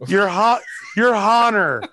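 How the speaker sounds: 1 mock lawyer. Mock lawyer addressing court.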